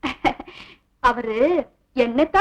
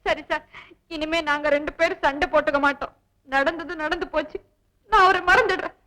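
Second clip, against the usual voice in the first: faked teary sacrifice; 4 dB quieter than usual. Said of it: "பிரமாதண்டி உன் நடிப்பு".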